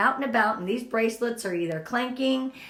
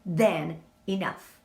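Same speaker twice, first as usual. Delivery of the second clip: slow affirmation; 4 semitones lower, 4 dB louder, much slower than usual. Shown as a demonstration. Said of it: "and tell yourself".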